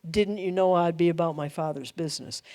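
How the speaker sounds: quiet, earnest and gentle; sincere. Shown as a demonstration. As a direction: say it simply, with calm authority. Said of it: "He was reflecting the I am".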